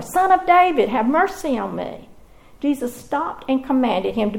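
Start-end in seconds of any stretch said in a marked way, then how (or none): 0.0-2.1 crying out even more. Acted. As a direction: shout it over the crowd trying to hush you. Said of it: "he called out all the more".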